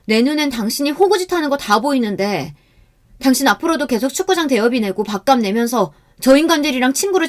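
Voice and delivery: frustrated scolding, pitch climbing; exasperated outburst. Acted. Wife scolds husband over his freeloading friends, exasperated. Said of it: "저는 너무 답답해서 속이 터질 것만 같았어요".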